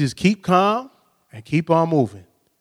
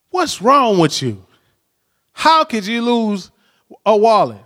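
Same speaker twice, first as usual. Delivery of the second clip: mock scolding; 3 semitones higher than usual. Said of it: "I could have been like".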